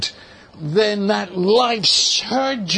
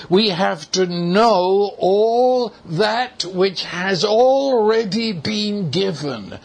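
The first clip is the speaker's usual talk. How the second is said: slow, emphatic preaching with "know" drawn out; measured emphasis starting from a long "know"; stress on know. Real, not acted. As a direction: lean hard on "know", then spell out each word deliberately. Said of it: "and I emphasize that word".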